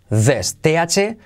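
"This" said slowly, tongue between teeth for the TH; pronunciation demo. Shown as a demonstration. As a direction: model the TH in "This" carefully. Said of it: "semiclave T H".

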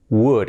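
"would" without any L; correct would. Shown as a demonstration. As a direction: say "would" with the L silent. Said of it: "La L fuera". ("would" sin pronunciar la L)

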